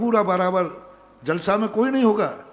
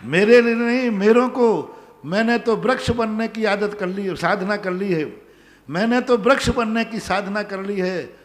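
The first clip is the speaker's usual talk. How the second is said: poem recitation. Acted. Monk continuing his poem after a devotee's cheer, poem recitation. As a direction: recite it out firmly to the gathering.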